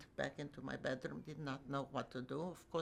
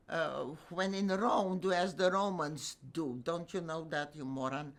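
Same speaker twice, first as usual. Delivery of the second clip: scornful retort; 6 dB louder than usual. Retold or imitated. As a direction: put him down with biting scorn. Retorting to him, mocking.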